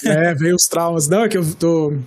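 tired, fading voice giving out. Real, not acted. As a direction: let the worn-out voice give way. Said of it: "minha voz tá indo embora já".

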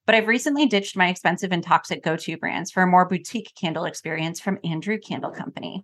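polished podcast sponsor read. Real, not acted. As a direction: deliver a scripted host endorsement. Reads a sponsor ad.

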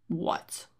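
a breathless, unvoiced "what"; whispered shock. Retelling the bad news from Jimmy, a whispered gasp. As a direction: mouth the word in stunned disbelief. Hearing the shipment is late.

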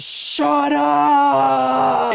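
loud high yell from a window; imitated shout. Neighbor yelling down at the street. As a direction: bark it like an angry neighbor. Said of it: "all I hear is".

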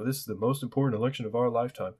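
fast, sing-song mock of a campaign slogan; sneering fast parody of an election slogan. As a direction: rattle off the slogan like a cheap ad. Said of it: "I literally heard y'all say".

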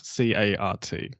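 "C A R T" letter by letter, slowly; spelled out. Shown as a demonstration. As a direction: spell "C A R T" out carefully.

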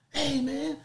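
high, loud gleeful greeting; mock shout. Riders greeting the newcomers, high excited shout. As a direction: call out to everyone in welcome.

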